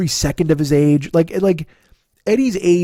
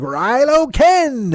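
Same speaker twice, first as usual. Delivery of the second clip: very slow, higher drawn-out fan voice; mock superfan; 9 semitones higher, 3 dB louder, much slower than usual. Mocking fans of the Rey and Kylo pairing, slow drawn-out voice. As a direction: savor the name like a devoted fan. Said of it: "there's people like".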